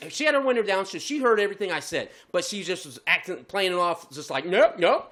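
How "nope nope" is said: louder mocking toothless mumble; toothless gumming. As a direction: imitate someone with no teeth brushing you off. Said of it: "like one of them people who have no teeth".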